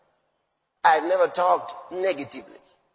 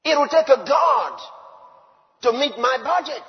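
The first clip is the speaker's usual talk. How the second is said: emphatic shout; 4 semitones higher, 5 dB louder than usual. Real, not acted. Preacher booming to the congregation. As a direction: shout it out, louder and higher.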